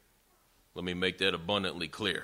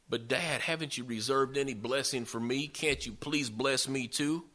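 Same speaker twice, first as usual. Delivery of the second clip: higher-pitched entreaty, slowing at the end; mock pleading; 5 semitones higher than usual. Son to his dad over a lost blessing, pleading. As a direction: beg like a wronged son.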